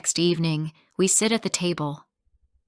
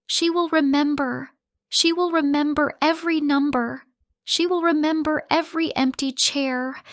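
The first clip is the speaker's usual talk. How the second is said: high, loud, accusing tirade; shouting; 9 semitones higher, 4 dB louder than usual. Acted. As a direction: hammer each "will" in anger. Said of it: "I shout".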